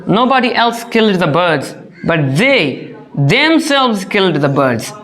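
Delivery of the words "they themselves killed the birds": slow, with weight on "themselves"; slow down and stress "themselves"; emphatic themselves. Shown as a demonstration. Teacher explaining nobody else did it, stress on "themselves". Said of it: "We are intensifying".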